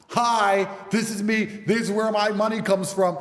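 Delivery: exaggeratedly straightforward presenting; mock open disclosure. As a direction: lay it out loudly for doubters. Acting himself showing legal income.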